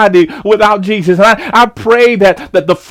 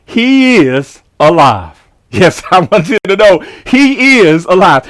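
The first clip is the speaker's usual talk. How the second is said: excited; 3 semitones lower than usual. Real, not acted. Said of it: "I'm excited about this".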